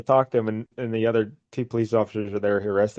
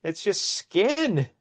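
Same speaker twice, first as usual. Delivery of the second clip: mock alarm, pitched up; freaking out; 5 semitones higher, 3 dB louder than usual. Commissioner finding no zipper on the duck, acted freak-out. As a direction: rise into a high, drawn-out retold freak-out. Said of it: "And he's freaking out".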